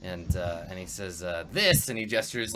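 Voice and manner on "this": raised, grandiose goblin pronouncement; sweepingly grand single word. Acted. Goblin gestures over his domain, grandiose. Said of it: "like, grandiosely".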